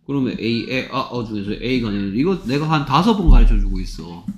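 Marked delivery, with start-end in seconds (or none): 2.2-4.3 louder, exasperated teacher scolding. Real, not acted. Teacher tired of re-teaching a pupil, exasperated. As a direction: push the complaint up in volume.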